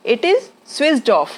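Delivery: slow, it is said in full; full form slowly. Shown as a demonstration. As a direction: stress the separate it is. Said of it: "it is को it's बोलते हैं".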